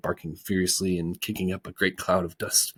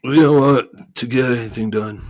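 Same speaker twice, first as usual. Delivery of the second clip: indignant retort, understated; mild angry snap; 6 semitones higher, 10 dB louder than usual. Acted. Lethargian snapping at Milo, mildly angry. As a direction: snap it back, a touch louder. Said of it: "snapped another angrily".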